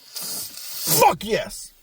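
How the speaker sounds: breathless whispered victory; soft unvoiced little cheer to himself; whispered triumph. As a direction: whisper it like a private fist pump. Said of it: "that just feels like".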